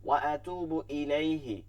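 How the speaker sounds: slow ওয়া আতুবু ইলাইহি with held vowels; careful recitation. Shown as a demonstration. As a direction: stretch আতুবু and ইলাইহি clearly. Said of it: "খেয়াল করতে হবে". (ধীর তিলাওয়াত)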